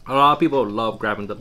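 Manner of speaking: talking between bites; chewing while talking. Real, not acted. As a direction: mouth partly full of food. Seen 2: Man bit duck leg at -5; cheeks full, jaw working while talking.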